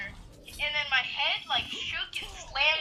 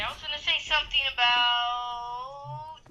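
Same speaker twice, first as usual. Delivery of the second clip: voice crack; slower than usual. Real, not acted. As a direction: voice cracking mid-sentence, slowed. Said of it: "horrible voice crack".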